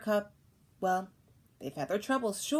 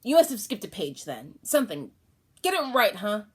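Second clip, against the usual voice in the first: put-on insistent child protest; 3 semitones higher, 6 dB louder than usual. Boy to father, insistent protest. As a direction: push back on dad.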